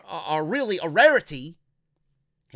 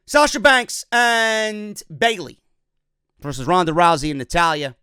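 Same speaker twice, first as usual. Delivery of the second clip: ring announcer call; 5 dB louder than usual. Retold or imitated. Vlogger calling the match card like an announcer.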